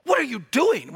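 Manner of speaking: 'What are you doing?' said as a reproach, not a real question; demo of a rebuke. Shown as a demonstration. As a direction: show how 'What are you doing?' means stop. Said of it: "we see that in English, right?".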